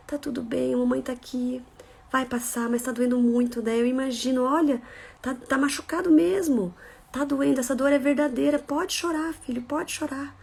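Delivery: soft, tender reassurance; soothing a child. Acted. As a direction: let him cry, gently comforting. Mother comforting a crying child. (voz suave e carinhosa para o filho)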